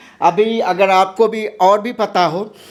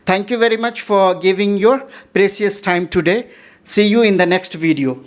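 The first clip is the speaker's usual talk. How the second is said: slow sign-off; much slower than usual. Acted.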